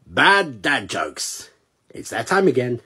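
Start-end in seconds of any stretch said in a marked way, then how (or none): 0.1-1.5 drawn-out deadpan title call; slow title announce. Acted. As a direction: announce it slowly and flat.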